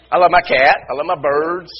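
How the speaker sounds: laughing. Real, not acted. Joking list amid laughter.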